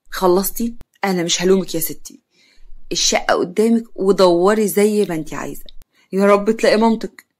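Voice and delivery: calm, measured challenge. Acted. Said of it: "كريم بهدوء".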